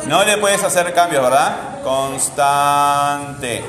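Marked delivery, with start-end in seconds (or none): 1.8-3.6 palabra estirada sílaba a sílaba; dictado alargado. Real, not acted. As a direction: stretch out each syllable of "Constante", as if writing it. Dicta alargando mientras escribe. (dictado lento, alargando las sílabas)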